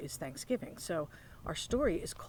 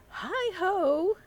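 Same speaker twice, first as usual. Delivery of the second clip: high, loud hare greeting; Hare calling; 13 semitones higher, 6 dB louder than usual. Acted. Hare arriving at Bear's lair, calling high and loud. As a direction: call it out bright at the door.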